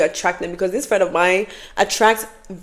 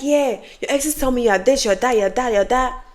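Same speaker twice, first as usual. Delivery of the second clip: higher, mildly taunting list; taunting sister; 4 semitones higher than usual. Retold or imitated. Sister telling her what the exes say, mock taunting. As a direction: imitate a sister rubbing it in.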